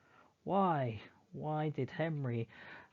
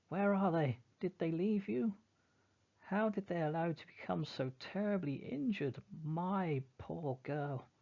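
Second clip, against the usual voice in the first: shrill anger; 6 semitones higher than usual. Acted. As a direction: demand answers in rage. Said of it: "shrill with anger".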